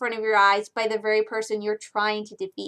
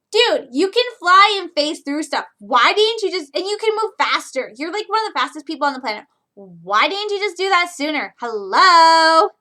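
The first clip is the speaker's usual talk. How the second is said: put-on annoyed valley girl voice; exasperated valley girl, pitched up; 4 semitones higher, 5 dB louder than usual. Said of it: "I usually talk like a valley girl".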